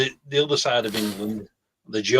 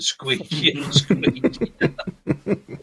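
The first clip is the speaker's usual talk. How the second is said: laughing squeakier; 4 semitones higher, much slower than usual. Real, not acted. Drunk Scouser voice getting squeakier.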